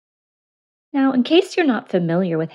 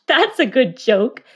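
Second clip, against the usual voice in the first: mocking hare; 6 semitones higher, 4 dB louder than usual. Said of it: "The hare laughed".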